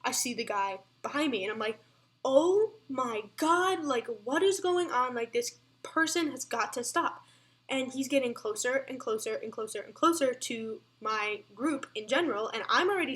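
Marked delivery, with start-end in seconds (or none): 2.2-7.2 imitating her own panic at seeing the guy; retold panic.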